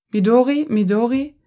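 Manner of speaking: high, loud, frantic calling with rising ends; anxious friend calling out, voice close to cracking; voice almost cracking. A narrator's reading. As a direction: call her name, voice nearly breaking. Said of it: "die Stimme überschlug sich fast".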